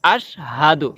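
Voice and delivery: আশহাদু with a clear h; corrected আশহাদু. Shown as a demonstration. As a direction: say আশহাদু with a crisp breathy h. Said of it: "আশহাদু হবে না, হবে".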